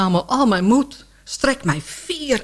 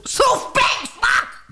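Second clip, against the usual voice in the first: startled curse; 12 semitones higher than usual. Acted. Startled out of her zen.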